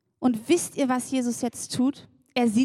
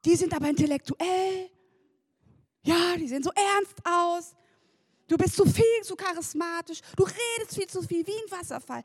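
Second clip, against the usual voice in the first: higher-pitched imitation of disapproving people; mock criticism; 4 semitones higher than usual. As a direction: lightly act out the fault-finders. Voicing critics she imagined.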